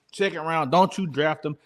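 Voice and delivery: normal talking voice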